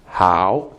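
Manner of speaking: "hao" low, then dipping up; third tone. Shown as a demonstration. Teacher pointing out each tone, low third-tone "hao". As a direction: let "hao" sink low in isolation. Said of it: "third tone".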